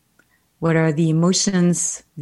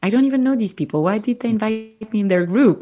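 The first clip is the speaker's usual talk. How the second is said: surprised; 5 semitones higher than usual. Retold or imitated. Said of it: "And I was like".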